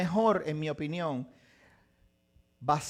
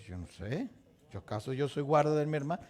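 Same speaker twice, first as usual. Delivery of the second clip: defiant Cain; 3 semitones lower, 4 dB quieter than usual. Retold or imitated. Cain answering God.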